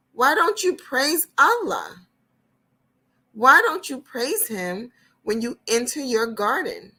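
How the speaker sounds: poor friend gently challenging his proud friend; earnest poor friend. Acted. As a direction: plead with him to be grateful. Poor friend questions rich friend.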